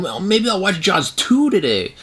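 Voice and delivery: a hint of sarcastic daydreaming; mock sarcastic musing. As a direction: say it like a joke you'd never mean. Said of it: "I'm never gonna be like".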